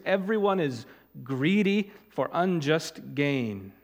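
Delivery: prophet's warning read aloud from the pulpit; forceful scripture reading. Acted. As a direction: declaim the prophet's words to the people. Reads Jeremiah with force.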